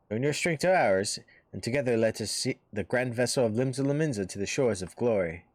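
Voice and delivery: lightly voiced admiring military envoy; a hint of a rousing officer's pitch; hearty recruiting officer. Maelstrom officer praises the hero to win a recruit, lightly voiced rousing envoy.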